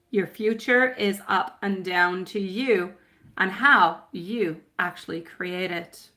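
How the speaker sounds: slow, measured reading of a card message. Acted. Psychic reading an angel card slowly to her client.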